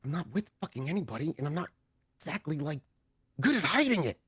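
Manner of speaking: hushed, guilty admission; soft, halting excuse to a glaring companion; sheepish undertone. Acted. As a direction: confess it softly, under the breath. GM voices captive confessing under glare.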